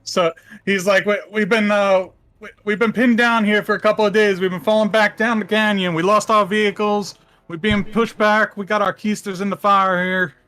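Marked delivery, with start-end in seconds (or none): 1.1-10.3 hammed-up backwoods Southern accent; redneck accent. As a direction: plead as a put-on redneck militiaman. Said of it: "militia guys sound like rednecks".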